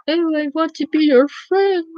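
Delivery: high, slow, sugary fake voice; syrupy mock sweetness. Old classmates on Facebook begging, high sugary mock voice. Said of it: "they're like".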